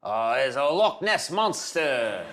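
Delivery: drawn-out Scottish impression; Scottish accent. Shown as a demonstration. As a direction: put on a slow Scottish accent.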